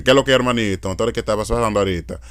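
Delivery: quick Dominican Spanish; general Dominican accent. Shown as a demonstration. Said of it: "the general Dominican accent".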